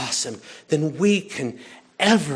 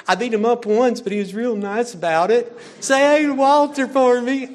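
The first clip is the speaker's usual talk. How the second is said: put-on high, chirpy little-girl voice; voicing Scout; 7 semitones higher, 5 dB louder than usual. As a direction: play the innocent child greeting a neighbor. Voicing child Scout in the story.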